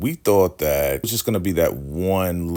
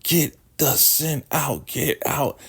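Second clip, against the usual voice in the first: slow, much higher mock chant; frenzied zealot; 9 semitones higher, slower than usual. River wailing on Anthony to drive out sin, frenzied. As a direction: drive the words out like an exorcism.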